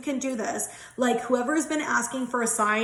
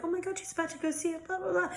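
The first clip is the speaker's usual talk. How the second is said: put-on excited kids; 7 semitones higher, 7 dB quieter, faster than usual. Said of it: "They're like".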